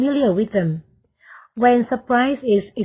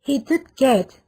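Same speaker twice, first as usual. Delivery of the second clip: "he did get" with "did" lifted and stressed; emphatic did get; 3 semitones higher than usual. Shown as a demonstration. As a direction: punch "did" to mark emphatic surprise. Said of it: "the emphatic form".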